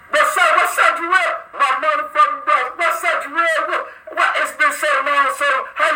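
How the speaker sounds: light up as he calls the name out; happy shout-out to a returning friend; excited greeting. Real, not acted. Greeting a caller who joined.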